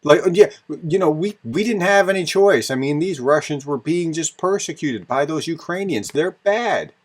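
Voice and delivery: a hammed-up whiny mock justification; mock Russian excuse. Vlogger mocking the Russian side's excuse, sarcastic parody.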